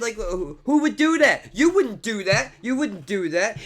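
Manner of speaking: high, loud incredulous demand; indignant outburst. Real, not acted. Vlogger challenges the audience, loud and indignant. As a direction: throw the question at them, outraged. Heated rant rhetorical question.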